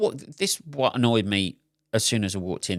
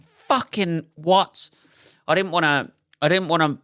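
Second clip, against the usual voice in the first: disbelieving outburst; 6 semitones higher, 4 dB louder than usual. Retold or imitated. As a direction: stretch it out in shock. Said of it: "I was like".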